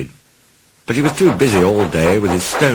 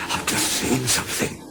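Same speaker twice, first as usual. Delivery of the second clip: frightened, hushed and trembling; a scared little engine barely able to speak; shaky voice; 5 semitones higher, 8 dB quieter than usual. Acted. Toby tells Thomas of the ghost in a shaky voice. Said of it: "said Toby in a shaky voice".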